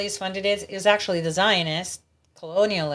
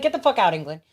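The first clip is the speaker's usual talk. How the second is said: higher-pitched, indignant mock telling-off; pissed off; 3 semitones higher than usual. Imagined Australian telling England to leave, pissed off. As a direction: act out an irritated brush-off. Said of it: "I'd be pissed".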